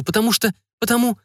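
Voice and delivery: hesitant. A narrator's reading. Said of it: "подыскивала нужные слова".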